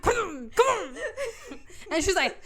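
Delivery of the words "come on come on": high mock calling with laughter; urgent calling out. Guests calling bride down the aisle, mock urgent call. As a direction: beckon frantically, half laughing. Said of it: "calling her to the end of the aisle".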